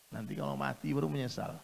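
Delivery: normal talking voice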